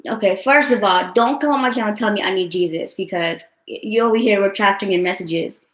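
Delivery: real irritation, loud on the opening words; annoyed, forceful telling-off; irritated. Real, not acted. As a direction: tell them off, fed up. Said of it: "that shit irritates me".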